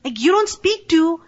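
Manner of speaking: reliving the fury at the man who insulted her dad; mock-furious defence of her dad; retold angry outburst. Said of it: "I was so mad".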